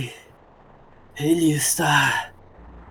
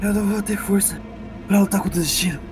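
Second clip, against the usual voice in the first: higher, anguished pleading over fate; tearful despair; 6 semitones higher than usual. Acted. Shao telling Ellie he cannot fight fate, higher and anguished. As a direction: plead as if close to tears.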